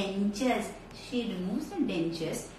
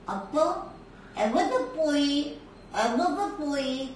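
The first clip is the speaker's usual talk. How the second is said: toothless grandma; 2 semitones higher than usual. Acted. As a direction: mumble it through a mouth without teeth. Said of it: "because she doesn't have teeth".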